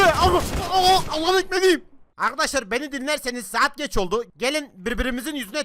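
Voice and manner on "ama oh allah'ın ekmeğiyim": triumphant. Real, not acted. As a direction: savor the win out loud. Triumphant after kill.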